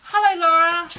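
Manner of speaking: sudden loud yell of a greeting; loud then suddenly hushed. Real, not acted. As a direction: shout hello across the room. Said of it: "I yelled that at you".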